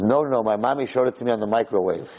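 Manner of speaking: put-on laughing through a kid's line. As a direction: chuckle through the words. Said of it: "He says".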